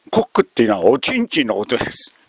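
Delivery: ordinary talk, nothing marked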